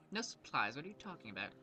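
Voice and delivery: put-on slight accidental British accent; a touch of British in the voice. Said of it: "I had a British accent".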